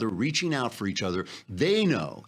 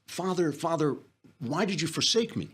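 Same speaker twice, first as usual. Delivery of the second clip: higher, hammed-up plea to heaven; pleading pastor; 7 semitones higher than usual. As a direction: cry out to God in mock anguish. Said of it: "and he says".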